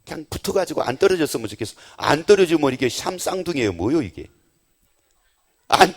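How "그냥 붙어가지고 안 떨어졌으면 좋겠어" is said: mock lovestruck sigh. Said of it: "이런 소리예요".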